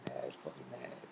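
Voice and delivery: hushed whisper; whispered warning about the sleeping friend. Real, not acted. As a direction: drop to a whisper so he stays asleep.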